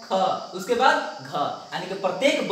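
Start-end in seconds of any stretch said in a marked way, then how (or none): 0.0-0.1 ख pushed out with extra breath; aspirated ख with extra force; forceful ख. Shown as a demonstration. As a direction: say ख with a strong aspirated puff. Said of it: "थोड़ा जोर लगाना पड़ता है".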